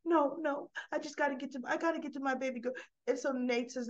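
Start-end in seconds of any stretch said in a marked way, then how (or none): 0.1-2.7 frantic. Retold or imitated. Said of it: "Lily comes back in frantic".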